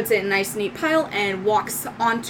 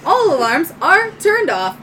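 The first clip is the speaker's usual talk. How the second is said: high, loud robot helper; little droid; 7 semitones higher, 5 dB louder than usual. Acted. Little droid offering help to owner, high robotic voice. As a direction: offer service in a small robot's voice. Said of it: "your little light droid".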